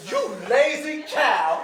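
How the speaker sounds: scolding. Acted. Master scolding servant.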